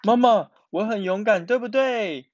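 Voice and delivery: put-on high, eager child's voice; proud child. Miaomiao seeking praise after injection, proudly. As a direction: ask eagerly for mother's praise.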